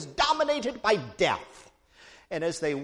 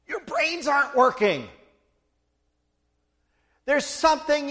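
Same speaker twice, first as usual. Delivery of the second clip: chiding; 5 semitones higher, 4 dB louder, slower than usual. Acted. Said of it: "Jesus is saying to them".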